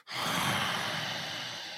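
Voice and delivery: long voiceless hissing snarl; acted snarl. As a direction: softly exhale a drawn-out beastly snarl. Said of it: "and he snarls".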